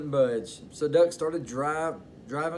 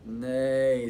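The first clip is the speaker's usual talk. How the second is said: horse neigh; 3 dB louder than usual. Acted. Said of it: "said the Horse".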